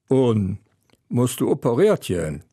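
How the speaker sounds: mildly prying question; nosy. Acted. Wife quizzing husband after the doctor, nosy. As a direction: ask with a touch of eager curiosity. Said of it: "ganz fürwitzig".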